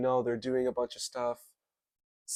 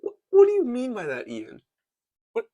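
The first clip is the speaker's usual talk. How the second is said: mock panic; 12 semitones higher, 10 dB louder than usual. Pretending Theodore reacts in panic.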